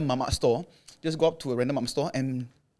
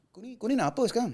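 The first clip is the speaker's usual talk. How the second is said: higher and fast, mock angry; furious retort; 8 semitones higher, 3 dB quieter, faster than usual. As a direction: imitate an angry young smoker snapping back. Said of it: "the guy got furious".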